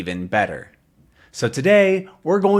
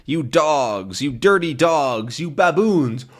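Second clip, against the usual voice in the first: mock insults; 3 semitones higher than usual. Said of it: "he's yelling threats".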